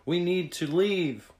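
high, loud alarm; urgent yell. A narrator's reading. Tag urges friends to flee the shadow, urgent yell. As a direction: urge everyone away, loud and high. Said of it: "Tag yelled".

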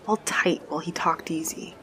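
hushed, unvoiced aside; whisper. A narrator's reading. Narrator whispering about the nervous stranger. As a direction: breathe it out like a secret.

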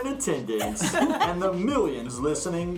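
booming mock announcer build-up. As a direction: introduce him like a boxing announcer. Mock grand host introduction.

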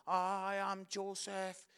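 very slow, stretched-out recital; nervous child actor. Retold or imitated. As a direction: lightly imitate a nervous kid saying his line. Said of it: "he's a bit nervous".

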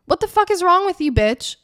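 high, loud, indignant yelling at the anxiety; mock angry confrontation. Talking back to her own anxiety, mock angry yell. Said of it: "Like, get mad at it".

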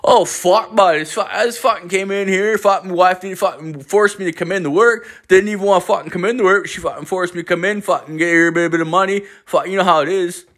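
put-on high, run-on Newfoundland accent; rambling put-on Newfoundlander, barely intelligible; the speaker's Newfoundland twang. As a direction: grumble at high pitch in a thick mock Newfoundland twang. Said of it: "like, this weird twang".

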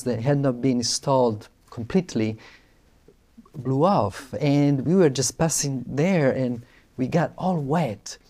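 ordinary delivery

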